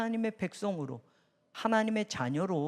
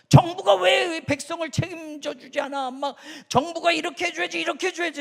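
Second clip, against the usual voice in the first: higher, whiny demand; mock complaining citizen; 6 semitones higher, 3 dB louder than usual. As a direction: mimic a grumbling citizen. Mocking entitled citizens. (불평하는 백성을 흉내내듯)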